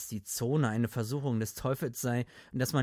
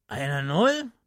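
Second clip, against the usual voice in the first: sad booming; 3 semitones higher, 8 dB louder than usual. Acted. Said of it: "dröhnte Gatlin betrübt".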